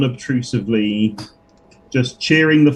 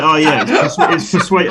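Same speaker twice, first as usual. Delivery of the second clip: laughing; 4 semitones higher, 4 dB louder, faster than usual. Real, not acted. Laughing about honest roll.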